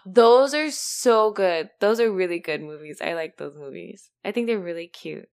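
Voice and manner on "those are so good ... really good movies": slow, drawn-out, loud gush; gasping excitement. Real, not acted. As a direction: gasp then stretch every word. Shocked friend never watched.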